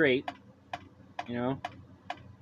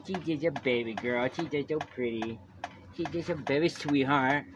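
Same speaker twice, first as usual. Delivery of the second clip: put-on baby talk. Baby talk about his daughter.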